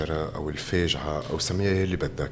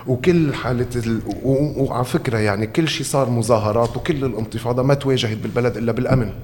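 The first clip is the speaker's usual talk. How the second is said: higher and louder, building; heated loud rant; 4 semitones higher, 4 dB louder than usual. Real, not acted. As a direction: press hard in anger. Heated critique of security crackdown.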